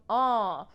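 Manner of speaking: uh sent through the nose; nasalized vowel. Shown as a demonstration. Teacher demonstrating nasalization, uh through the nose. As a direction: make the uh nasal. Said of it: "sound that you want to make nasal".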